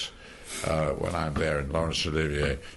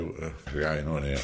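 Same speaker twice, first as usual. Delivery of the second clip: put-on London accent; 2 semitones lower, slower than usual. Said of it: "That's London".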